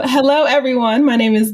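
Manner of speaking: a touch of a lifted announcer hello. Shown as a demonstration. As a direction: greet them like an event announcer. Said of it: "I needed my announcer voice".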